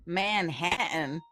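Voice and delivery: slow, drawn-out Southern-tinged Manhattan; Southern-sounding accent. Acted. Officer repeats the applicant's borough, in a Southern-sounding accent. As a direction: stretch MANHATTAN out in a would-be New Jersey accent. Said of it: "don't say it with a Southern accent".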